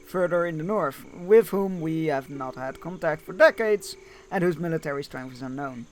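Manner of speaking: lively storybook read-aloud; game story narration. A narrator's reading. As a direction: read the quest briefing out to listeners. Reads the game's story text.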